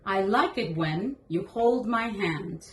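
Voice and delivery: slow gentle read-aloud voice; reading to a toddler. Acted. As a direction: read it slowly to a small child. Reads the board book aloud.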